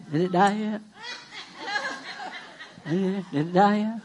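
low, hushed doubting question; mock timid checking. Pastor mimics someone running back to the fig tree, mock timid. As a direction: ask it small and soft, poking fun at doubt.

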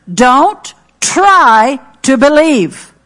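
"try" stretched and punched slowly; stress on try. Acted. Preacher to church, slow with "try" hit hard.

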